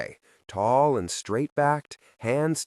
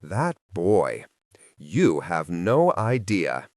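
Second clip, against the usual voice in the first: low, slow, weary sigh of a voice; lightly voiced tired exasperation; exasperated; 4 semitones lower, slower than usual. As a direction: let the frustration sag out slowly. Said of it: "letting out a low, exasperated breath".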